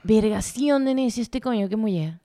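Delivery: soft, slow Maracaibo grumble; muttered Maracucho aside; borrowed Maracucho accent. Shown as a demonstration. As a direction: demonstrate picked-up Zulia slang in its accent. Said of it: "pero así como que".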